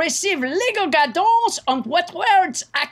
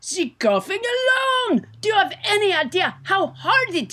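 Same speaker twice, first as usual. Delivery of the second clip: exasperated shout; 5 semitones higher than usual. Acted. Exasperated outburst.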